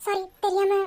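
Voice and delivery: halting, slightly tearful apology; broken phrases, mildly choked up; a touch emotional. Acted. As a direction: apologise while composing yourself. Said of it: "கொஞ்சம் emotional".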